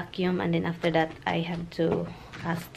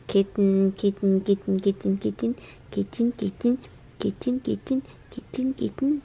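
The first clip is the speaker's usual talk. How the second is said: rising coaxing call. Real, not acted. Calling pet, voice rising.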